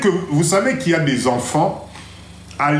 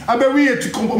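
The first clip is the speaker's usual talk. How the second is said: put-on higher, affected French accent; 5 semitones higher, much faster than usual. Mocking someone who changed accent to fit in, put-on French accent. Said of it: "tu changes l'accent pour faire plaisir".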